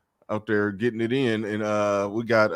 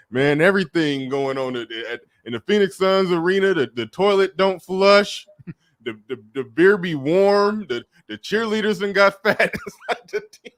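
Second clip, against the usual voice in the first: Charles Barkley; 7 semitones higher, 4 dB louder than usual. Retold or imitated. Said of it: "Charles Barkley was like".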